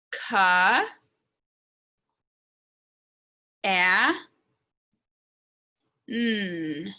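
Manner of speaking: "Ka, a, n." with long gaps between the three sounds; sounding out. Shown as a demonstration. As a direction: stretch out "Ka, a, n." one sound at a time. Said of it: "I'm gonna sound it out".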